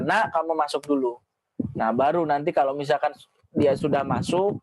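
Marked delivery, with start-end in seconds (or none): 0.0-1.2 calm request. Shown as a demonstration.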